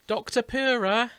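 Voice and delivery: put-on high, slow, loud child's cry of a name; squeaky little girl.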